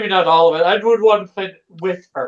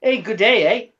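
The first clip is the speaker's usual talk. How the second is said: Canadian accent. Shown as a demonstration. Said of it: "He said the Canadian voice".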